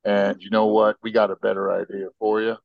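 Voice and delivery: lightly voiced King George in a Southern drawl; a loose Southern drawl, laid back. King George brushing off the colonists, in a mild Southern drawl. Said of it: "I'm using some Southern drawl here".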